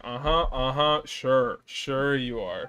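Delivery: slow, dry sure you are; sarcastic agreeing. Real, not acted. Streamer teasing the character calling himself heartless, sarcastic. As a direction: pretend to agree, dripping doubt.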